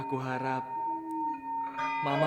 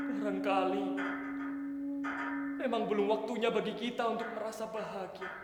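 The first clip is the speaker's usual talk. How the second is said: quiet sorrow; 7 dB quieter than usual. Acted. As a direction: say goodbye quietly, defeated. Rejected son says goodbye.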